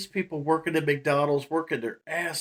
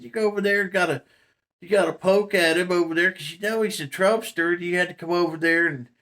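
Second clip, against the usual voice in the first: higher, faster playful ribbing, grinning through it; teasing mock scold; 4 semitones higher than usual. Teasing the friend who poked the Trump guy, mock scolding. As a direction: needle him with a grin, pitched up. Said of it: "I said".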